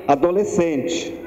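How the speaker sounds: ordinary delivery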